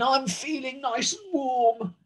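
mildly voiced contented lion; a touch of a lion's roar. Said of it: "roared the lion".

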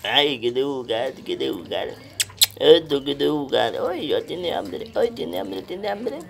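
put-on cooing in baby talk; baby talk to puppy. Owner to a hungry puppy, cooing in baby talk. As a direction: babyish lisped fussing over a puppy.

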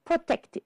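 high "protected" with a sounded id ending. Shown as a demonstration. Teacher confirming three syllables, "protected" ending in id. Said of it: "the E D is heard eight".

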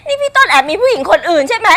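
tearful whining reproach; wife crying that husband has another woman; crying accusation. Acted. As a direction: sob it out at him, hurt and jealous.

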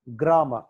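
గ్రామర్ ending in "-ma", no R; గ్రామర్ said "gra-ma"; silent final R. Shown as a demonstration. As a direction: drop the last R of గ్రామర్. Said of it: "ఆర్ silent".

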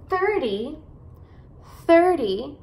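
THIRTY with a strong, long THIR; THIR-ty, first syllable stressed. Shown as a demonstration. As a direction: lean on the start of THIRTY, light ending. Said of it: "você vai enfatizar as sílabas no começo".

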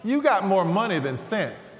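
put-on old hobby-store man teasing through a laugh; old shop clerk. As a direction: rib the young man gently. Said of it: "the old guy that worked there".

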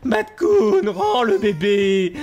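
loud, stretched-out order; shouting demand. Real, not acted. Ordre crié au raton. (exiger en criant)

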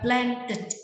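"planted" with a separate last syllable, "tit"; đuôi -ed đọc /ɪd/. Shown as a demonstration. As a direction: sound out both syllables of "planted". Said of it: "có ba cách phát âm đây". (đọc "planted" rõ âm tiết cuối "tít")

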